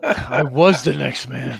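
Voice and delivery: slow acted line delivery; slow put-on movie quote. Quoting movie line again.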